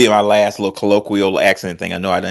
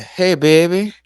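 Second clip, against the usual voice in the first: dude's voice; 8 semitones higher, slower than usual. Retold or imitated. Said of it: "the dude walked up to me and said".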